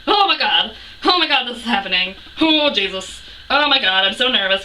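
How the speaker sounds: loud, breathless-with-nerves retold freak-out; flustered fangirl panic. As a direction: replay your starstruck nerves out loud. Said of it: "started trembling like a leaf".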